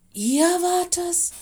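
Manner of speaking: loud, high, outraged question; indignant, drawn-out outburst; angry growl. A narrator's reading. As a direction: stretch it out in furious disbelief. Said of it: "Mino knurrte böse".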